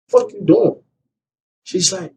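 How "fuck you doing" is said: sharply high retold snap; furious confrontation. Man confronting the mother in the back room, sharp and high. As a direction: confront her hard. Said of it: "I'm like".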